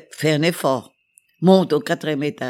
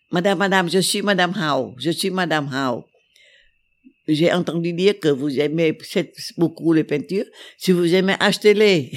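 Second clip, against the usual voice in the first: eager wife; 2 semitones higher than usual. Retold or imitated. Painter's wife voiced eagerly.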